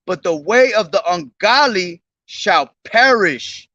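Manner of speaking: measured, solemn Bible reading; solemn King James recitation; scripture reading. Acted. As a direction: read the verses like a preacher. Reads psalm aloud.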